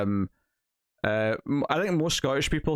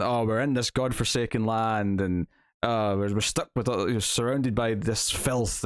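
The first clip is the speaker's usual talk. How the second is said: snobby mocking. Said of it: "This was mocking".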